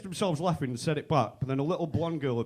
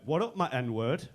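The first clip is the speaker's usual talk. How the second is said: slow, drawn-out buddy greeting; imitated friends' greeting; 2 semitones lower, slower than usual. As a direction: stretch the greeting out, rising at the end. Friends greet each other.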